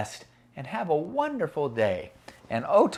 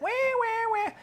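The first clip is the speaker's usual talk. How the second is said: very high, softer wah-wah wail; mock whining; 4 dB quieter, slower than usual. Shown as a demonstration. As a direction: imitate a whiner in a squeal. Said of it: "used to that sound yet".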